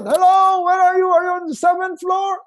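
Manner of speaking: high, loud calling through the house; hammed-up shouting for family; mock shout. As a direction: call out as if lost in a huge house. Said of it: "I don't have to shout".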